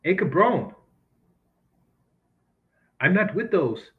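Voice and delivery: lightly put-on Mexican accent, rising on "ese"; a mild mock Mexican accent, unsure of itself. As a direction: do the only Mexican voice you know, half-hammed. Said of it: "in a Mexican, um, voice, the best I can conjure".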